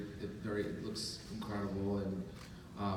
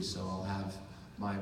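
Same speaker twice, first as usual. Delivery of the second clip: normal talking voice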